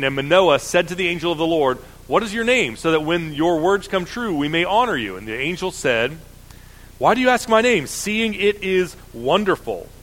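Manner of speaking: lifted public reading of scripture. Acted. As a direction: read the passage out to the congregation. Reads scripture passage aloud.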